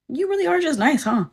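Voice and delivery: high-pitched retelling of a marvelling manager; quoted disbelief, voice lifted high; imitated surprise. Acts out manager's surprised aside.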